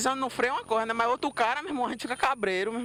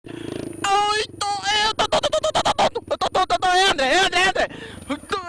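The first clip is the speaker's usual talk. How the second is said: high, loud, stuttering in panic; panicked stammer; 9 semitones higher, 6 dB louder than usual. Real, not acted. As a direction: stammer out the words, losing it. Panicking as the bike leans.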